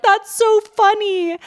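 high, slow, gushing mock delight; high drawn-out "that's so funny". Shown as a demonstration. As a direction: squeal it out like a parent amused by a swear. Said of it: "we're not gonna be like".

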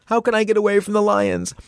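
high panicky cry while fleeing lions; mock panic. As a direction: jump way up, mock terrified.

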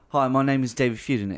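lightly put-on British accent. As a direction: introduce yourself with a hint of British. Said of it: "these British actors".

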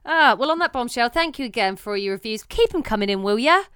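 a light put-on Cockney sign-off. To podcast listeners, a hint of a Cockney accent. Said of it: "Don't know why I've gone all Cockney".

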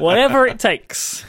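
laughing through the words. Real, not acted. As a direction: laugh as you say it. Laughing while pitching.

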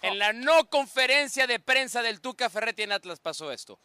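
presenter's video intro leaning on "no"; emphatic lead-in with "no" stressed. Shown as a demonstration. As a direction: announce the clip, marking "no" as the joke. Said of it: "vamos a presentarlo así".

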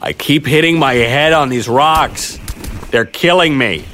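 hurting, pleading voice; pained complaint. Acted. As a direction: complain as if being dragged over rocks. Injured man pleads while dragged.

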